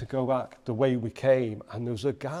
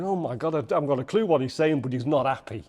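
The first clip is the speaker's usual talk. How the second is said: panicked thought; 2 semitones higher, 5 dB louder, faster than usual. Retold or imitated.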